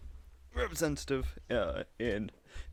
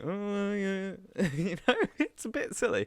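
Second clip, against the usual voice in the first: mock caller; 7 semitones higher than usual. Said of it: "And he's like".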